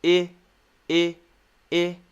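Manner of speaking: short "I" as in sit, not "eye"; short I sound. Shown as a demonstration. Teacher showing learners the short I, isolated vowel. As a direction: say "I" as a relaxed, isolated "ih". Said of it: "this is the short I sound".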